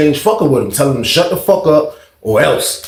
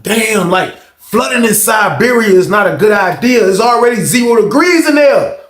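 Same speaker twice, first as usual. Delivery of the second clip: raised, higher protest; alarmed complaint; 7 semitones higher than usual. Retold or imitated. Inmate finding his freezing cell flooded, alarmed complaint. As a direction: complain in a high, incredulous voice.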